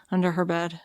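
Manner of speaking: whispered punchline; breathy storyteller whisper; dramatic whisper. Acted. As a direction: drop to a hushed reveal.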